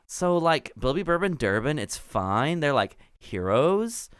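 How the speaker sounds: high chill gnome, lazy "like" fillers; valley girl gnome. Acted. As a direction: talk like a laid-back valley girl. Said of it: "Clotilda says".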